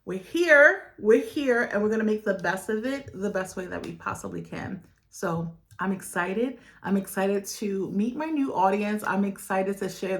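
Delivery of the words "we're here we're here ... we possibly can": pumped-up self-talk. Retold or imitated. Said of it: "And I'm like".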